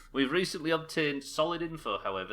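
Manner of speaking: engaged briefing narration; dossier read-aloud. Acted. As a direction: read out a report, getting into it.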